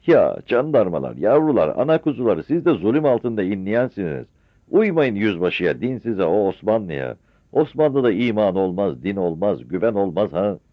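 loud, high preaching at soldiers; haranguing. Acted. Mother shouts to gendarmes against the Ottoman. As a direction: rouse them against the captain.

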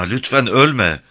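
a narrator's gentle beg, lifted in pitch; pleading. A narrator's reading. Louisa begging Jim not to die, pleading. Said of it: "dedi yalvarırcasına".

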